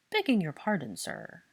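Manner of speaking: apologetic croak. Acted. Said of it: "the old elf croaked apologetically".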